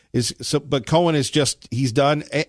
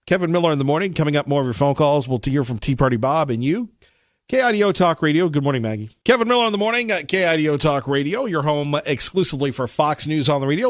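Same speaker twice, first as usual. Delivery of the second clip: radio announcer read; 2 semitones higher than usual. Acted. Host reads station ID promo.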